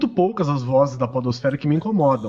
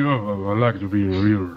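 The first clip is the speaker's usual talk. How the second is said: much lower, mumbled rock singer voice; low punk singer speaking voice; 9 semitones lower, slower than usual. Retold or imitated. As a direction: drop low like a laid-back rocker. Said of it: "Aí quando ele vai falar".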